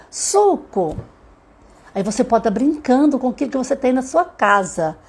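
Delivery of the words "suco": "suco" pitched high, clearly sounded out; model word for child. Acted. Parent giving a child a word to say, modelled clearly. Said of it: "vamos falar a palavra".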